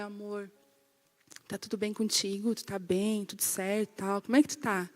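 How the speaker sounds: very soft, low check-in; tender concern. Retold or imitated. Wife to husband on the way to dinner, tender. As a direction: imitate a doting wife asking gently. Esposa carinhosa pergunta ao marido.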